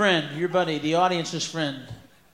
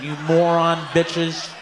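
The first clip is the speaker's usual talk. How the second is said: slow shout; 2 semitones lower, slower than usual. Real, not acted. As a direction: spit the insult out slowly. Insult shouted at audience.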